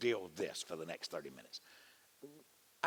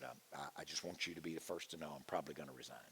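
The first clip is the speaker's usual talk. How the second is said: sad; 5 semitones lower, 7 dB quieter, faster than usual. Retold or imitated. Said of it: "and he was kinda sad".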